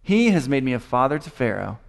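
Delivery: measured, deliberate scripture reading. Acted. Preacher reads Joseph comforting his brothers, deliberate scripture reading. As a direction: read the passage out phrase by phrase.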